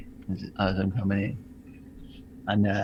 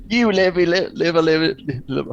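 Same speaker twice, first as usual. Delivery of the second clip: loud, high stammered yell; yelled attempt at a tough guy line; shouted Hondo catchphrase; 7 semitones higher, 7 dB louder, slower than usual. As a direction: bark it like a drill sergeant. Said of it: "I'm gonna go full Hondo".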